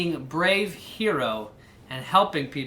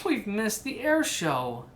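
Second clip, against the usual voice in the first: slow, softer disappointed line; sadly; 4 semitones higher, 4 dB quieter than usual. Acted. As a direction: let the letdown sink in. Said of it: "she said to Orville sadly".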